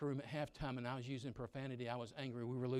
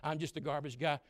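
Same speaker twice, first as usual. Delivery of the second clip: mock mumbling; 4 dB louder, faster than usual. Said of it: "you're mumbling the whole way".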